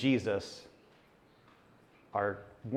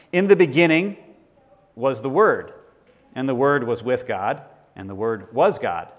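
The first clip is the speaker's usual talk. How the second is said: scripture reading; 2 semitones lower, 3 dB louder than usual. Acted. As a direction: read it like a proclamation that winds down. Reads John on screen.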